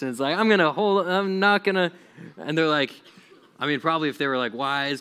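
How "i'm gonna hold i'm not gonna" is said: high, loud mock defiance; rebellious kid. Kid refusing to leave bed for school, mock defiant. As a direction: dig your heels in, hammed-up. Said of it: "you were a rebellious kid".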